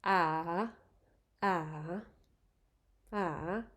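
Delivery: "ah" dips down then climbs back up; rising tone ah. Shown as a demonstration. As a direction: let "ah" sink then rise. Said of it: "you go down and then back up".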